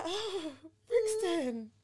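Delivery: high, slow, laughing mock dismay; drawn-out mock horror. To manager, mock dismay at his Brixton flat, slow and laughing. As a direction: stretch it out slowly, laughing in disbelief. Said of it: "I was like".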